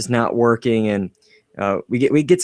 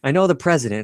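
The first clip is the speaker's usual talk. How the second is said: excited Marty; 2 semitones higher than usual. Retold or imitated. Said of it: "Marty's so excited".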